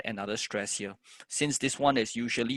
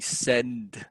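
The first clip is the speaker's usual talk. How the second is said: lengthened syllable. Shown as a demonstration. Teacher showing consonant clusters take longer, word drawn out. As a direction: SEND held long. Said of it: "should have a longer time value".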